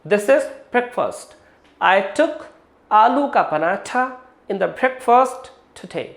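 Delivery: slow, deliberate example sentences; slow demo. Shown as a demonstration. Teacher modeling slow careful speech for students. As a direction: say each word slowly and clearly. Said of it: "जैसे मैं बोल रहा हूँ".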